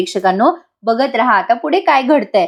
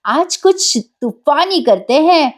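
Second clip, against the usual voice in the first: slow, slightly higher catchphrase; talking motorbike; 4 semitones higher, slower than usual. Acted. Petrol-filled bike calls its owner out, slow playful catchphrase. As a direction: draw out the bold slogan a little.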